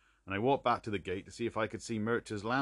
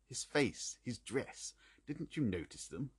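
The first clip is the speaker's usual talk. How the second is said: impatient; 4 semitones higher than usual. A narrator's reading. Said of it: "Holmes broke in impatiently".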